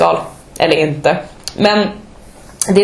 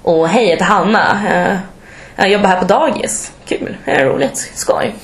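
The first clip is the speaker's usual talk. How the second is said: lightly smoothed-out Norrland dialect, held in. Retold or imitated. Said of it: "försökte tänka på hur min pappa låter".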